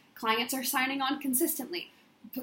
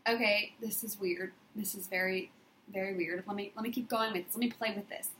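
quietly musing to herself; half under her breath, puzzled; a low private aside; inner voice; 3 semitones lower, 6 dB quieter than usual. Retold or imitated. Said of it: "And I was like".

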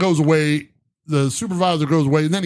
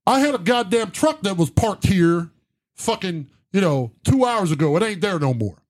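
high-pitched, worked-up retold outburst; exasperated rant; 8 semitones higher than usual. Upset truck owner snapping at a bum asking for a dollar, exasperated. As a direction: re-enact venting at someone, voice climbing higher.

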